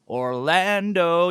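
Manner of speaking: Orlando stretched slow, every syllable drawn out; slow teasing drawl on Orlando; drawn-out name. Shown as a demonstration. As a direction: savour the word Orlando slowly, like a callback. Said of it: "You ever seen that?".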